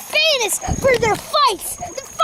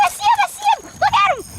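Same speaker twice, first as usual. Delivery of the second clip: spotting it, high and thrilled; excited; 5 semitones higher, faster than usual. Real, not acted. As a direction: call out in delight. Kid spots the fish.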